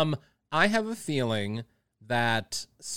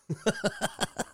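smoker's laugh; 3 dB quieter than usual. Real, not acted. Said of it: "when I laugh and stuff, I sound like a smoker".

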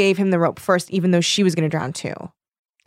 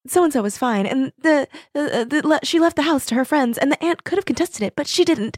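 high-pitched sing-along recap voice; mock epilogue narrator; 7 semitones higher than usual. Reader parodying the epilogue, high mock narration. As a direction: reel off the updates in a mocking higher voice.

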